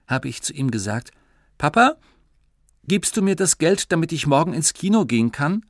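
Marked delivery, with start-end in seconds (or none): 1.6-5.6 put-on high, loud begging child voice; pleading child. Child begging Papa for cinema money, high pleading.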